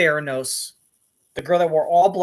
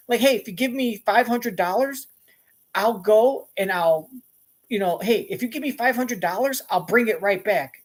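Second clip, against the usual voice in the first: higher-pitched, casual plea; regular voice; 5 semitones higher than usual. Acted. Man asks to borrow money, higher unconvincing voice. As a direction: ask in a light, ordinary high voice. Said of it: "if I talk a cer-, a different way".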